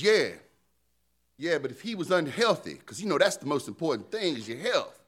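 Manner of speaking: lightly put-on New York accent. Preacher voicing Satan arguing with God, light New York accent. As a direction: argue back in a hint of New York. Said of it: "Satan suddenly has a New York accent".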